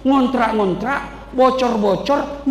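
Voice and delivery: slow, stretched-out words; slowly mocking the renter's hardship; drawn-out. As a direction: linger on each doubled word. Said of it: "preacher stretches words".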